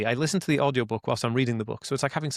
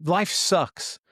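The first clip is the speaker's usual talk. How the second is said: whiny victim; 3 semitones higher, slower than usual. Retold or imitated. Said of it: "I could have gone like".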